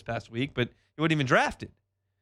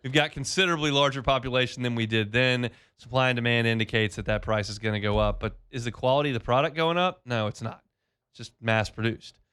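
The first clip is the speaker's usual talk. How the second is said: host-read sponsor spot, slowing to make a point; live beef sponsor spot read by the host; radio ad read; 3 semitones lower than usual. Acted.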